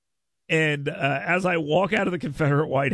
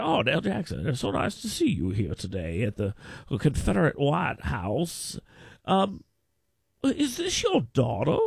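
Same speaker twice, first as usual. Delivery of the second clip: imitating Jim Ziegler. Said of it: "He's like a male Kay Ivey".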